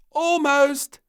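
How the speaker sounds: high, loud, gleeful; pleased as punch. Acted. Little Princess teasing the King, high and gleeful. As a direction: chirp it, delighted with yourself. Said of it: "pleased as punch".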